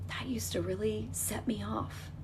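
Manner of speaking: slow soft whisper. Pretend. Future self to herself, slow soft whisper. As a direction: hush it as a calm realisation. Imagined calm self-reflection.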